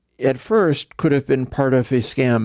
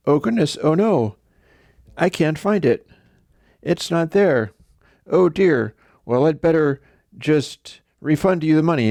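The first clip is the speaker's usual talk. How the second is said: higher mock-flustered apology; fretful seller; 5 semitones higher than usual. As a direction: play the hand-wringing seller. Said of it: "He's telling this sob story".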